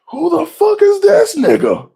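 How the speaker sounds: high, loud, indignant shout; mock outraged yell. Everyone at Sabo's entrance, high outraged shout. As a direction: yell it as the whole room. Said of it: "everyone's like".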